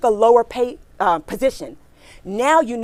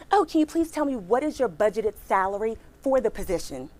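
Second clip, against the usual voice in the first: softer, smiling, pleasant ask; with a smile; 6 dB quieter than usual. Shown as a demonstration. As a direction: smile while you ask the recruiter. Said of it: "So you say it with a smile".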